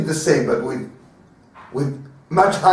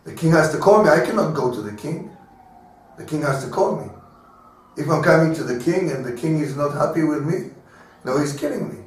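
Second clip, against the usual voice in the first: fearful Esther; 2 semitones lower, 3 dB quieter than usual. Retold or imitated. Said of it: "She says to him".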